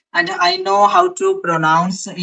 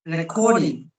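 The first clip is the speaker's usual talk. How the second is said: soft British-accented word; 5 dB quieter than usual. Shown as a demonstration. Asked to pronounce recording by partner, British accent. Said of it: "Could you pronounce recording in British accent".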